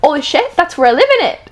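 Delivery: a lightly put-on British accent; mock British accent, barely there. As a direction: take a stab at a British accent. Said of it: "We have to do the accent".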